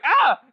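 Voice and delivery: high, loud mock shriek through laughter; startled scream. Retelling her finding a finger in her hair, mock startled scream. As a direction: yelp as if freaked out, half laughing.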